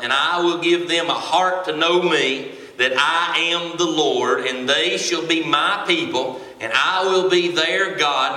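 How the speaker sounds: measured, emphatic Bible reading; scripture reading. Real, not acted. Preacher reading God's promise to his congregation, emphatic scripture reading. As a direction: read it out solemnly as God's promise.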